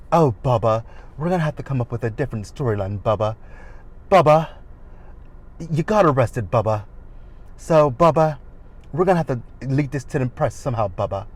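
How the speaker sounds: mock-accented wife scheming with her husband; Dorit's accent. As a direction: put on a light affected accent. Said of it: "I don't know what Dorit's accent is".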